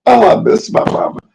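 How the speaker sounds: high, breaking, tearful whisper; crying. Real, not acted. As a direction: sob it out missing mama. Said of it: "I cry a little".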